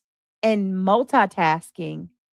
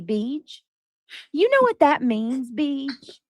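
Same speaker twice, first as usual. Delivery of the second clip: mock bragging mom; 3 semitones higher, slower than usual. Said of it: "I'll never forget when she said".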